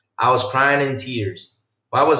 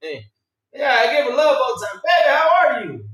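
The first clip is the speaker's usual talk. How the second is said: sweet-talking the painting; 9 semitones higher than usual. Retold or imitated. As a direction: coo at the portrait so she stays friendly. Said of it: "be like".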